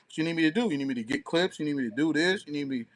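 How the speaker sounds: ordinary delivery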